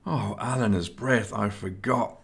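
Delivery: a mild, understated plaintive moan. Acted. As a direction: let it droop, a touch sorry for himself. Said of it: "Nelson moaned plaintively".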